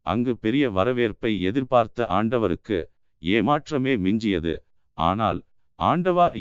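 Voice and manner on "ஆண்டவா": high-pitched call, mildly raised; crowd's roar. A narrator's reading. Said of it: "என்ற பேரொலி மட்டும் குறையாதது". (கூட்டத்தின் பேரொலி போல உயர்ந்த குரலில்)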